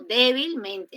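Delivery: Débilmente with DÉ and MEN both hit hard; double stress. Shown as a demonstration. Teacher showing students two strong accents in one word, double stress. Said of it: "en débilmente hay dos, dos acentos fuertes".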